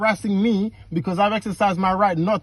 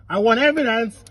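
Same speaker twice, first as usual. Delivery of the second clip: raised voice; 5 semitones higher than usual. Real, not acted. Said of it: "Stop raising your voice".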